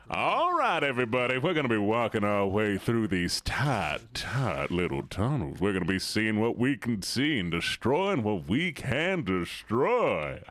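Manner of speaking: lightly voiced showman villain; hint of a sinister host; Oogie Boogie. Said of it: "I could do Oogie Boogie".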